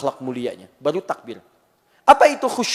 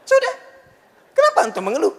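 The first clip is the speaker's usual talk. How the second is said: rising, louder rebuke; loud challenge; 13 semitones higher, 7 dB louder, faster than usual. Acted. Preacher challenges the audience, loud and rising. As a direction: call out the complainers.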